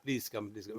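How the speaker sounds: low, soft polite beckoning; mock courteous invitation; acted invitation.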